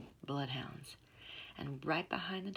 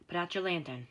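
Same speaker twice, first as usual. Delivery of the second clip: hissed; 5 dB louder than usual. Acted. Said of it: "the man hissed over his shoulder".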